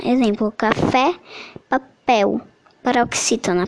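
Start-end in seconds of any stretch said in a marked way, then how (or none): 0.5-1.1 "café" stressed on final FÉ; "café" as an example of final-syllable stress; stress on last syllable. Shown as a demonstration. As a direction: lean on the FÉ in "café". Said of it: "palavra cuja sílaba tônica é a última".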